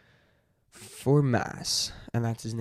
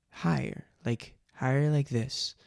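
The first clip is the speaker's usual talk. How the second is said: slightly raised character pitch; a modestly higher character voice; 3 semitones higher than usual. Shown as a demonstration. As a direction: nudge the voice a little higher. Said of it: "a higher pitched voice".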